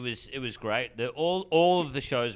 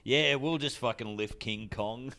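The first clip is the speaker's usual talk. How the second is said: laughing. Retold or imitated. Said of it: "It was like".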